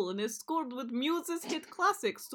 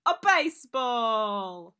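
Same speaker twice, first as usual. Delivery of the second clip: Edward's dad voice; 4 dB louder than usual. Acted. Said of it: "what Edward's dad sounded like".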